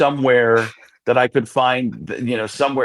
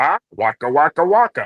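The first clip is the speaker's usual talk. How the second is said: voice pushed to the back of the throat; 3 semitones higher than usual. Demonstrating how puppet voices are made, in a back-of-the-throat Fozzie Bear voice. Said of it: "which is the back of the throat".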